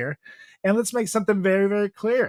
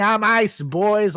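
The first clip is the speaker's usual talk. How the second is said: mock yell; 5 semitones higher, 4 dB louder, much slower than usual.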